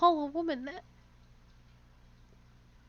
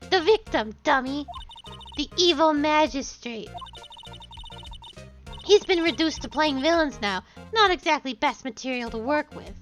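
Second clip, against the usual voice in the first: put-on old woman voice. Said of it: "I have to do an old woman voice".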